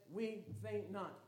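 measured, softened refrain; slow refrain. Real, not acted. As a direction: repeat the motto steadily. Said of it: "we ought to say".

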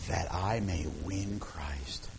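whispered, slow and soft; hushed whisper. Acted. Preacher whispering Paul's vow to the congregation. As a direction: breathe the words like a secret vow.

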